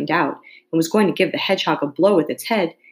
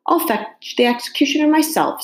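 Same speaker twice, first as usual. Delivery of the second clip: higher, keen offer; eagerly; 9 semitones higher than usual. A narrator's reading. King eagerly offering to fetch the executioner. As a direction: jump at the chance to help. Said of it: "said the king eagerly".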